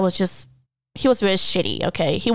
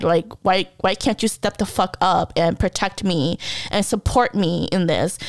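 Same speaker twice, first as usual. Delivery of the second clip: crying plea; 2 semitones lower than usual. Real, not acted. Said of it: "I'm bawling my eyes off here".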